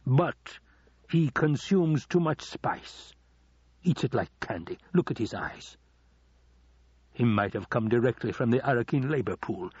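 lightly theatrical villain, savouring the objections; condescending Baron. Acted. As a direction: pick the servant apart with emphatic relish. Baron picks Piter apart.

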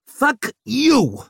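high, loud shout. A narrator's reading. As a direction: shout it back. Second cry in the attack.

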